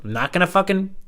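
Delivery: retold drunk defiance with a gun to his head; defiant yell. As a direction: spit it out refusing to break. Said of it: "and I was like".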